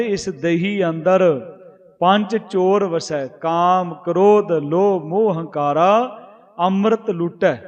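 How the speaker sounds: slow scripture recitation. Acted. Preacher reciting gurbani verse to the congregation, slow and reverent. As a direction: chant the verse slowly, each phrase drawn out.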